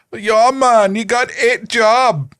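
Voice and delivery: high, hammed-up mock Jamaican accent; corn-fed white guy's clumsy Jamaican accent; bad Jamaican accent. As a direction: imitate a sketch Jamaican accent badly. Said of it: "I can't do it, that accent".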